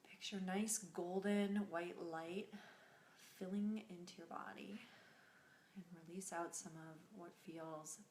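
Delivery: soft, unhurried meditation voice; guided meditation. Acted. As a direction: guide them gently through the breath, leaving long pauses.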